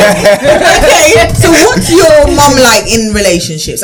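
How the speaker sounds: laughing while asking; slow, amused question. Real, not acted. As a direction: ask through a laugh.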